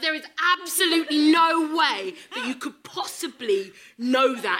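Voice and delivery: high, emphatic indignation; livid. Retold or imitated. Runner retelling her comeback to a stranger, livid. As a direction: lean hard on each word, outraged. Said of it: "I was so livid".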